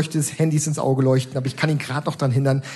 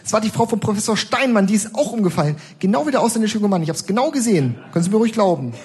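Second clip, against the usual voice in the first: put-on frail old woman; 8 semitones higher than usual. Old woman gossiping to a bystander, higher old lady voice. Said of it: "sagt die gebrechliche alte Frau".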